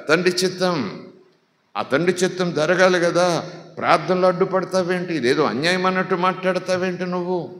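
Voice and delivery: high-pitched, insistent pulpit delivery; impassioned preaching. Real, not acted. Preacher rebuking those who resist the Father's will, impassioned preaching.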